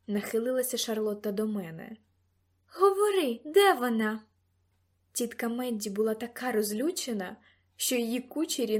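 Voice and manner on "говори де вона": loud, forceful interrogation; sharp, loud order; angry demand. A narrator's reading. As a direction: demand that they talk now. Charlotte interrogates the narrator.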